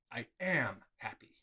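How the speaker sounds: hushed whisper. Shown as a demonstration. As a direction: breathe the words out as a secret. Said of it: "what was actually said... is".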